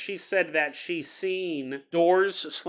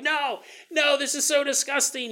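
disgusted; 8 semitones higher than usual. Acted. Shoved into the pouch.

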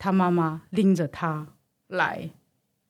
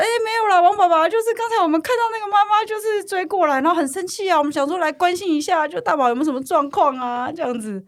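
earnest classmate; 9 semitones higher than usual. Retold or imitated. Classmates voiced politely to dad.

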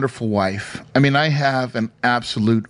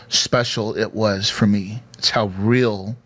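getting emotional; 5 semitones lower, slower than usual. Real, not acted. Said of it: "I'm getting a little emotional about it".

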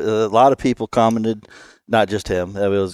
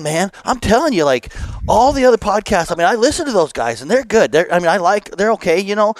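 put-on gushing fan, higher in a Wisconsin accent; 9 semitones higher than usual. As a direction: play an excited Wisconsin hunting guide. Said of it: "in the Wisconsin accent".

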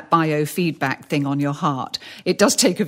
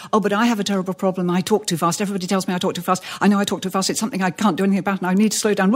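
imitating rushed speaker; much faster than usual. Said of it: "very often people say".

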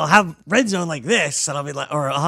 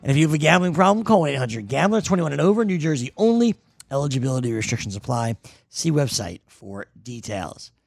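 ad read. Acted. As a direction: read the promo like a host. Reads a sponsor ad.

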